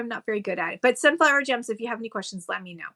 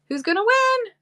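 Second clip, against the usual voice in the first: higher, teasing suspense before the draw; suspenseful teasing; 10 semitones higher than usual. Real, not acted. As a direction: drag out the wait, playful and high. Building suspense for giveaway winner.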